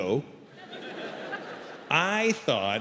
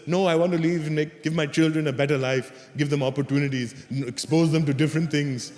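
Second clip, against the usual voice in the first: put-on earnest immigrant parent with an Indian accent; Indian-accented parent listing hopes. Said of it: "'cause they'll do this".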